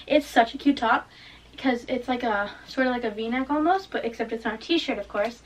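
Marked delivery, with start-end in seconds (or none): 0.1-1.1 chewing gum. Real, not acted. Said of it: "Sorry, I have gum in my mouth".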